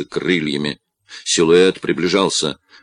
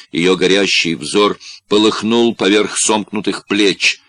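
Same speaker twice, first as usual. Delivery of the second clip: usual speaking voice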